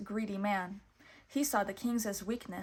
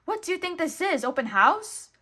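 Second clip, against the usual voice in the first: Pete bullying; 8 semitones higher, 9 dB louder than usual. A narrator's reading. Pete growling at weasel.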